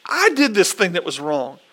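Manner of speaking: lightly acted plea, lifting high on the key words; interceding David. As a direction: plead with God on the people's behalf. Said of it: "David's words to the Lord as he's interceding".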